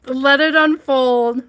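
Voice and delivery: laughing through hiccups. Real, not acted. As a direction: talk between hiccups, giggling. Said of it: "I can't stop these hiccups".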